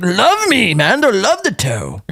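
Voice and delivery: put-on swooning praise; mock gushing. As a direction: mimic overeager fans, pitch jumping up. Mocking others' gushing praise.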